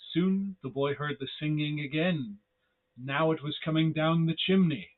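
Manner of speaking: hushed spooky storyteller; creepy narrator voice. A narrator's reading. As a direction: tell it like a vintage horror tale. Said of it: "creepy narrator voice doing this".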